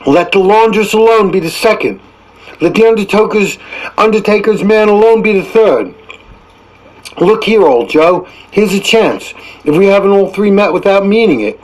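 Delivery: put-on high, cackling old woman's cry; charwoman crying out. Charwoman hails her cronies, high and brazen. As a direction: crow it out like a brazen old char.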